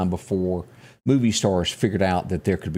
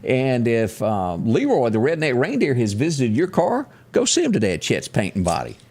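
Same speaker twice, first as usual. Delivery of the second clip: radio ad read; 2 semitones higher than usual. Acted. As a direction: sell the body shop to the listeners. Reads a sponsor ad.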